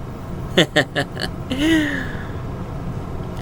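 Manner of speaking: soft breathy laugh trailing off. Real, not acted. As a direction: chuckle quietly at your own impression. Laughs after own accent demo.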